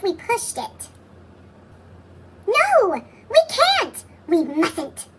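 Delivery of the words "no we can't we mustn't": high, loud panicked pleading. Acted. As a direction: cry out in alarm. Larry panics at the idea.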